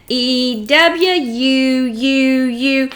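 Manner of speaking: E W U U U with each "U" stretched slow; drawn-out sounds. Shown as a demonstration. Teacher modelling sounds for a child, stretched slow chant. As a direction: draw out "U U U" slowly like a chant.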